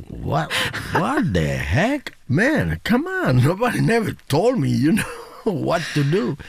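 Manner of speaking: high, indignant what-the-heck protest; mock disbelief. Father protests to son about being told what to do, high and indignant. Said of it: "I said".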